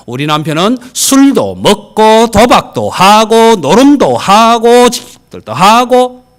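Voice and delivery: loud, slow and proud, shouting it out; proud boast. Retold or imitated. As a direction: brag about the husband at full voice. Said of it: "한쪽 부인이 하는 말이". (남편 자랑하듯 크고 느리게 외치며)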